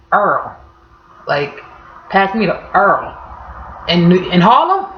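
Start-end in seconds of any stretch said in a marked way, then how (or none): 0.1-0.6 New Orleans oil as Earl. Retold or imitated. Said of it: "Y'all call it". 2.1-3.2 put-on New Orleans accent. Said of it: "Y'all call it".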